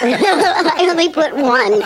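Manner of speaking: laughing. Real, not acted. Laughing while speaking.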